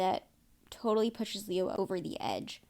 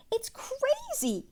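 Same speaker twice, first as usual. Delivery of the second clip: higher, slow whispered aside; slower than usual. Real, not acted. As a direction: breathe it out in disbelief. Whispered aside after the rant.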